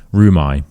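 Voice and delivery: "Room I" run together as roo-my; linked room I. Shown as a demonstration. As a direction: join "Room I" into one flowing roo-my. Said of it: "so roo my".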